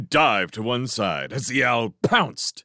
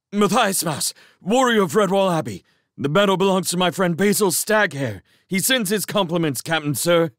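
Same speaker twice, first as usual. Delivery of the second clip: higher and louder, breathless from dodging; gasped out; 11 semitones higher, 4 dB louder than usual. Acted. Dodging mouse answers the owl, breathless. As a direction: blurt it out while panting for breath. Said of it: "the young mouse gasped".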